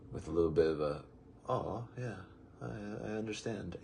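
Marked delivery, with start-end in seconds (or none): 1.5-3.8 understanding. Acted. Acted sympathetic reply in quote.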